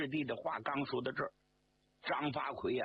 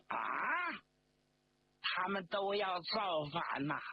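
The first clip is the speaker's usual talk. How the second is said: higher-pitched, acted alarm; alarmed exclamation; 5 semitones higher than usual. A narrator's reading. General reacting to news of a mutiny, alarmed. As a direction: exclaim as if startled by bad news.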